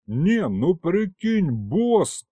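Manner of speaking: high, slow, drawn-out demon yell; yelling to the boss. Acted. Aristofan yelling at the king about the storekeeper. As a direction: shout it out, appealing to the boss. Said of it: "орал Аристофан".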